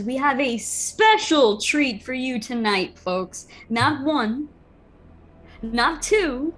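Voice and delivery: lightly voiced arena announcer; slightly showy ringmaster build-up; goblin announcer. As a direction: draw it out for the crowd, pausing for effect. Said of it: "the goblin now says".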